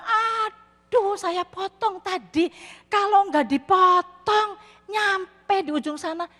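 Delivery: high, drawn-out mock wail of regret; regretful lament. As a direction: act out dismay, stretching the words high and slow. Regretting the cut, wailing in story. (meratap menyesal, dibuat-buat)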